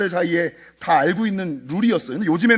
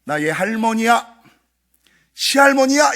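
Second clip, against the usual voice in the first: high, slow mock ghost granny; imitating the ghost claiming to be grandmother; possessed grandma voice; 5 semitones higher, 5 dB louder, slower than usual. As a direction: put on the spirit's eerie old-woman voice. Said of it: "이분이 뭐라 그랬냐면".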